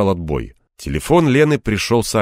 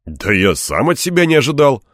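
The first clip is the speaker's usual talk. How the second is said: higher, lively note of surprise; surprised; 6 semitones higher, 3 dB louder than usual. A narrator's reading. Man marvels at his own pull-ups, mildly surprised. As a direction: sound amazed at yourself. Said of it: "удивился я".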